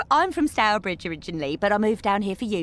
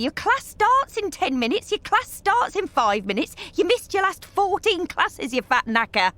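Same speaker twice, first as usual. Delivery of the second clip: higher robotic app announcement; chirpy gadget voice turning rude at the end; mock device voice; 8 semitones higher than usual. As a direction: mimic the nagging fitness app, chirpy. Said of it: "my iPad's bleeping at me".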